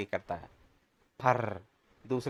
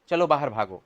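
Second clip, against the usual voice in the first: angry shout; 6 dB louder than usual. Acted. Annoyed neighbour shouts at the giggling kids to get out. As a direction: shout them out, louder.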